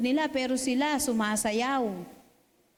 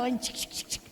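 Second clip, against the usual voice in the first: imitated beat; 6 dB quieter, faster than usual. Imitating band rhythm.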